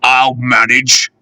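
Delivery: wheezy and out of breath; wheezing. Acted. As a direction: wheeze it out, slow. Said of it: "he wheezed".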